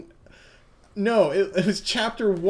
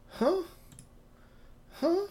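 Southern Belle; 12 semitones higher than usual. Acted. GM voicing Mitsuba to Yasuho as a sweet Southern belle. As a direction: play the genteel Southern lady, all honey. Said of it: "doing her Southern Belle".

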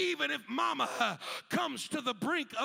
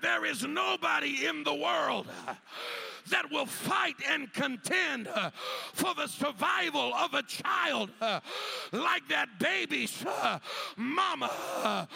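restated louder, punched out; preached louder; 3 semitones higher, 4 dB louder than usual. Shown as a demonstration. Preacher repeating the line louder to draw amens. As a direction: hammer it home to the room. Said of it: "I said".

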